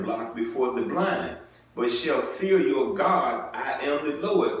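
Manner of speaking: measured formal Bible reading; scripture reading. Acted. Preacher reading scripture to the congregation, measured and solemn. Reads Leviticus aloud.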